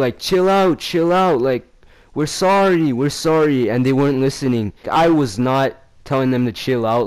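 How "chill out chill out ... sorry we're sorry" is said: high-pitched mock pleading; put-on apologetic appeal; imitated placating plea. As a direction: imitate friends trying to calm things down. Nicer friends pleading with the girls.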